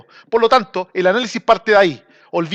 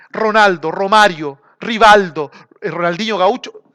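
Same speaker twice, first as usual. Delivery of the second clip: whisper. Acted. Whispered name in player list.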